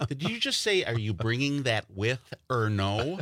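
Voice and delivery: incredulous. Retold or imitated. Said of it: "And then they go".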